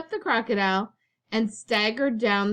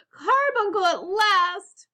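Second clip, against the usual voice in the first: high, slow, awed breath; 11 semitones higher, 4 dB louder, slower than usual. A narrator's reading. Aunt relieved at the mystery solved, breathing it out. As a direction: sigh it out in rapture. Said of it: "breathed Aunt Figgy".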